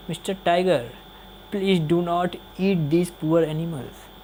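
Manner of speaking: lightly voiced polite plea, slow; very politely. Elephant politely pleading with the tiger, gentle. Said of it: "बहुत ही प्यार से हाथी क्या बोलता है".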